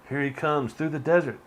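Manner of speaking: ordinary talk, nothing marked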